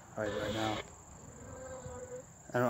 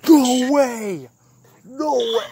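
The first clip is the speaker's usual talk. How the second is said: panicked shout; 13 semitones higher, 13 dB louder, slower than usual. Real, not acted. Reacting to a ghostly voice.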